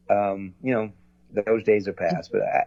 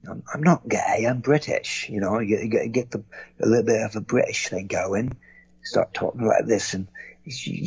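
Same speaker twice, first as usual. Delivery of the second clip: put-on British accent. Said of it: "I do some Irish and British".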